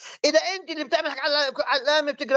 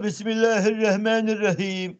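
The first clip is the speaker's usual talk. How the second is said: put-on slow recitation in a Persian-accented voice; imitated Persian accent reciting; Iranian recitation; 3 semitones lower than usual. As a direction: recite بسم الله like an Iranian, slowly. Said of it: "اسأل الإيراني شو بيقول".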